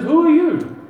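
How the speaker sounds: a lightly acted sleeper startled by an intruder; startled question. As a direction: jolt awake and demand who's there. Startled man woken at night.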